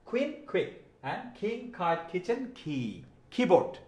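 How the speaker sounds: কুইন, কুইক, king, kite, kitchen, key, কিবোর্ড, all on "kh"; aspirated K recap. Shown as a demonstration. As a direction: puff air after each opening K from কুইন to কিবোর্ড. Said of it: "উচ্চারণটা হবে খ এর মতো".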